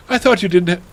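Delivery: high-pitched indignant outburst; mock shout. A narrator's reading. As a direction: raise the voice in melodramatic protest. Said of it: "I shouted".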